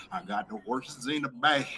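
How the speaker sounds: soft country-accent sung line. Shown as a demonstration. Showing off his country voice to friends, country accent. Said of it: "I just get to do my country voice".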